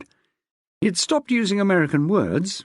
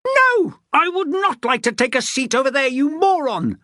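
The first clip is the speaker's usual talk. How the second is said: spat in fury; 10 semitones higher than usual. A narrator's reading. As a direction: spit the insult at him. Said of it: "the woman spat".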